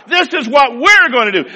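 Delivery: loud, firm declaration; with commitment. Shown as a demonstration. Joshua telling his people, loud and resolute. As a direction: state it like a settled decision. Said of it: "His commitment through his voice came out".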